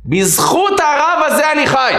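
high, slow, ringing climax; impassioned declaration. Retold or imitated. Patient crediting the rabbi with his life, high impassioned declaration. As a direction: proclaim it as your dying testimony.

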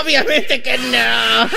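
villano alargando las palabras con saña; villano burlón. Acted. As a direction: remata con risa de villano. Lee al villano del juego. (villano burlón, arrastrando las palabras)

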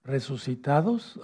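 "Resucitados" lento y seguido; dictado. Shown as a demonstration. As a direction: dicta "Resucitados" para que lo anoten. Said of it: "anótenlo". ("Resucitados" pausado, con final ascendente)

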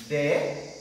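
DECORATION broken into de, co, ra, tion with long pauses; split into syllables. Shown as a demonstration. Teacher counting syllables for the class, DECORATION split syllable by syllable. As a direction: say DECORATION one syllable at a time, pausing between. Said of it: "four syllable it consists".

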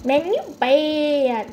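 slow, smug trash-talk voice; trash talker. Retold or imitated. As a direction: drag out the taunt like a trash talker. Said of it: "That's how trash talker says".

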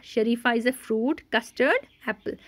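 slow reading. Shown as a demonstration. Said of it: "आओ ज़ोर ज़ोर से पढ़ें".

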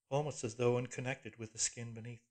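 ordinary delivery, nothing marked

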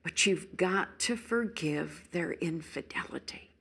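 pleading, anguished wife voice; a hint of a wronged wife crying out; betrayed wife. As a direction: voice the hurt, indignant spouse. Voicing a betrayed wife's anguish.

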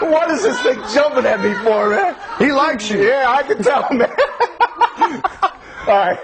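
giggling through words; laughing, high and breathless. Real, not acted. Reporter laughing with snake.

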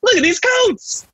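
very high, drawn-out comic cry; mock excitement. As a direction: exclaim it like a theatrical emergency. Acted excitement over fancy coats.

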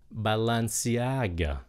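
"Balenciaga" slow, as ba-lan-see-AH-ga; syllable demo. Shown as a demonstration. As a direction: model "Balenciaga" slowly, short "ba" first. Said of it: "Cái âm đầu tiên đó là ba".

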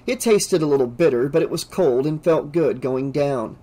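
plain reading voice

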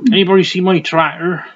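jokey West Country read-out; West Country accent. Acted. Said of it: "I'll stop with the accents".

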